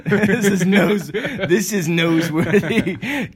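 slow, laughing, "newsworthy" said as "NOSE-worthy"; newsworthy as noseworthy. Pretend. Host making a nose pun, "newsworthy" said as "nose-worthy".

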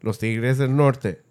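a band name said slowly, each Spanish syllable placed; checking the Spanish name is right; slow careful Spanish. Shown as a demonstration. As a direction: lean on the last word, slow and deliberate. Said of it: "Did I say it right?".

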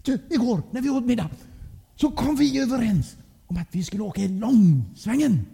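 hög, irriterad tillrättavisning; läxa upp med högre, eftertrycklig röst; förebrående mamma. A narrator's reading. Arg mamma förebrår pappa. (upprörd, förebrående mammaröst)

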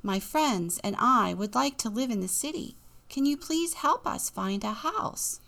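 polite Jack voice, lifting at the end; young Jack. Acted. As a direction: ask the king nicely as Jack. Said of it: "Jack said".

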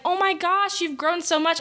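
high-pitched mock gushing; gushing relative. Long-lost relative greets a grown child, mock gushing. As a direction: imitate an overexcited relative's greeting. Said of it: "and they're like".

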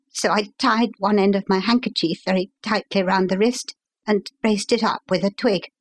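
lightly voiced agitated young gentleman; lightly voiced young visitor. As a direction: hurry through it like an anxious young engineer.

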